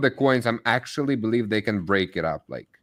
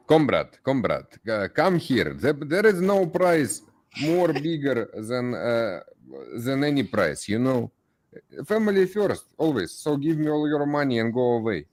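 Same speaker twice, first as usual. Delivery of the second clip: put-on Russian accent. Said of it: "the Russian final boss in an American movie".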